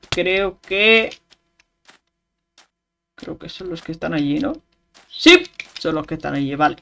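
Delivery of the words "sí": sudden high shout of joy; excited yes. Real, not acted. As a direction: yell it out, thrilled. Gamer finds target, shouts.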